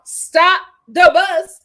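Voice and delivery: drawn-out shout of stop the bus; exclaiming. Real, not acted. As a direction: stretch it out like a big announcement. Hyping Deontay's mama.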